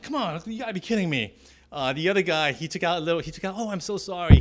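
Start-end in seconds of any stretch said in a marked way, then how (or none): 0.0-1.4 retold complaint. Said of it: "when I went to complain about". 3.6-4.4 loud, higher, sarcastic "so sorry"; mocking apology. Heckler mocks the narrator over his muddy bench, loud sarcastic apology. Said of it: "He was mocking me".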